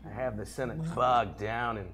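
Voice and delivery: odd Sidious voice. Acted. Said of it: "why are you reading this this way?".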